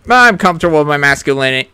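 low, fast macho voice. Acted. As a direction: growl it like a tough guy. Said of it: "sound manly".

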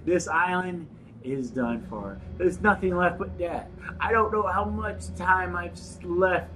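mock-mournful Russian accent. Doomed note writer to Papa, mock Russian accent. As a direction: lament in a put-on Russian accent.

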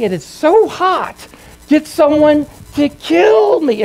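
high, slow, strained mock scream; retold agonized scream. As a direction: imitate a dying man crying out in agony. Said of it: "He was screaming".

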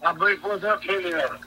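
muffled, hand over the microphone; words muffled by a covered mic; finger over the mic. Real, not acted. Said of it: "you're covering the microphone with your hand".

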